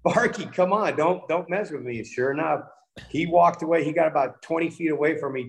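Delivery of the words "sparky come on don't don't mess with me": high, protesting mock warning; imitated protest, pitched up; retold warning. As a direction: replay an exasperated plea to back off.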